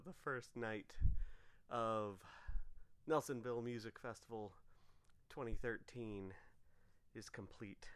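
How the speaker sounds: words around a retainer; tired, with retainers in; wearing a retainer. Real, not acted. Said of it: "I have my retainers in".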